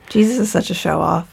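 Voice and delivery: a playful stage whisper; conspiratorial whisper of a teasing aside; whispered joke. Real, not acted. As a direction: lean in and whisper the quip. Joking aside to co-host.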